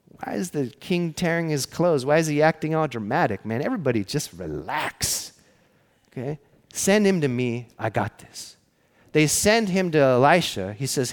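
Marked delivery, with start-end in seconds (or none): 0.1-8.6 mildly acted eye-rolling calm, dropping softer on the reassurance; unbothered prophet. Prophet tells everyone to relax about the king, lightly acted nonchalance. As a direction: lightly play a cool prophet settling everyone down. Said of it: "his reaction is like".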